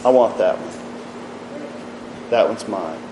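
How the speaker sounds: slow, near-whispered claim; hushed and slow, tenderly claiming one soul; Jesus, gently. Acted. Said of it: "Jesus is just gonna simply step in and say".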